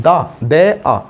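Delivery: "दा" with a long open "aa"; "दा" overdone with a full "aa" vowel; wrong pronunciation. Shown as a demonstration. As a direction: spell out "दा", then break it into "दे, आ". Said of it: "ये तो होना ही नहीं चाहिए".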